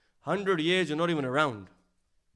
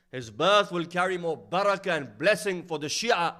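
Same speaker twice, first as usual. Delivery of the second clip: louder, ringing prophecy; raised pulpit proclamation; proclaiming; 3 semitones higher, 6 dB louder than usual. Acted. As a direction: announce it to the crowd.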